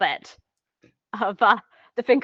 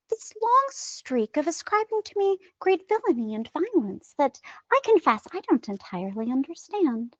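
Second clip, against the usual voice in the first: a hint of a scheming villain; villainous delivery; 4 semitones higher than usual. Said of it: "when you deliver it like that".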